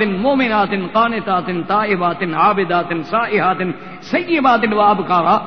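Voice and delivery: slow intoned recitation of the verse; Quranic recitation. Acted. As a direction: chant it like a reciter in the mosque.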